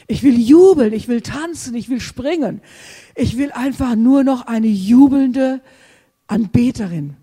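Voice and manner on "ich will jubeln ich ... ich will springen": much louder burst on "jubeln"; exultant outburst; jubilant cry. Real, not acted. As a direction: shout out the joy. Joyful longing in prayer.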